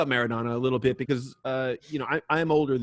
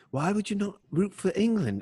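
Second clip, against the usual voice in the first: mock English pundit question; 9 semitones higher than usual. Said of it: "Dan Thomas ... he's like".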